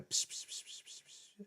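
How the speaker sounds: breathy whispered pss sounds; whispering the method. Retold or imitated. Trying the whisper method, whispering. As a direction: whisper it with eyes closed. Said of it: "with my eyes closed going".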